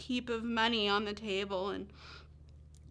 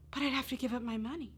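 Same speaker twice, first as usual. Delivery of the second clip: put-on fretting little girl; 4 semitones higher, faster than usual. Girl voiced weighing her choice.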